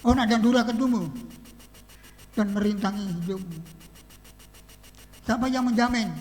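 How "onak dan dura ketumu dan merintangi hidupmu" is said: loud stern judgment, pitch sinking at the end; God's angry rebuke. Retold or imitated. Preacher voicing God cursing Adam, angry. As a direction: pronounce the curse like an angered God. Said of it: "Sehingga Tuhan marah".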